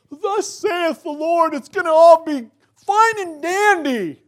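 high, loud, slow hammed-up proclamation; cartoon false prophet. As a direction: ham it up like a pompous fake prophet. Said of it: "the cartoon version".

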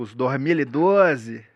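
slow, drawn-out mock Rio accent; teasing imitation of Rio speech; joking Carioca accent. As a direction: imitate a Carioca, stretching the words. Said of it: "você falava mais zoando".

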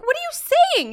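high, loud incredulous question; shocked parent. Retold or imitated. Mother retelling how she questioned her son, incredulous.

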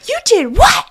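high, loud disbelieving gasp of a question; stunned Obi-Wan reacting in disbelief; shocked surprise. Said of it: "you sound so surprised".

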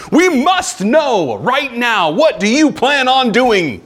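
high, loud mock demand from an angry crowd; imitated demanding crowd. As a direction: play the impatient crowd, pushing hard. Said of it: "they're yelling and screaming at a governor".

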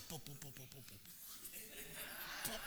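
quiet low mock pops, one after another; soft popping noises. Preacher mimics babies popping out, soft quiet pops. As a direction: tap out pop pop pop softly.

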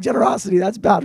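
lightly voiced scoffer dismissing generosity; a hint of a sneering skeptic; mock objector. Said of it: "no one's like".

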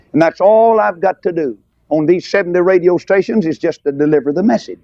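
ordinary talk, nothing marked

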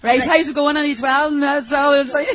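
quick Irish brogue on request; just chat in your Irish brogue; an Irish brogue for the hosts. Shown as a demonstration. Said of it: "they have Irish brogue, so just go ahead and talk".

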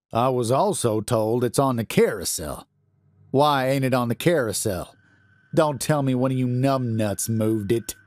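a hint of a pompous night guard scolding; gruff guard. Guard scolds the baggage workers, a touch put-upon. Narrator voices guard Gardner.

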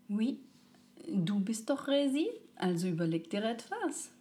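put-on cheeky, teasing child voice. A narrator's reading. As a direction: tease Resi with a grin. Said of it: "sagte die kleine Seele frech".

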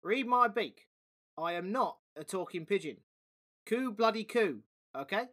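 cheeky pigeon. Acted. Pigeon insisting to Dom it cannot talk, cheeky. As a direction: insist with a wink.

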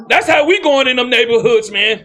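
rally the congregation with force; forceful preaching. Real, not acted. Preacher rallying his flock about the neighborhoods, forceful.

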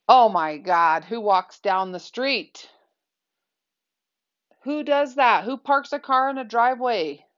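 a self-mocking overblown complaint; overly ridiculous mock outrage. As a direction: ham up the disbelief at ordinary things. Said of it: "be overly ridiculous about it".

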